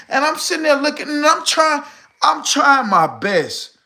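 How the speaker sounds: winded and straining; short of breath, pushing out the words. Real, not acted. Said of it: "me just doing that, I got out of breath".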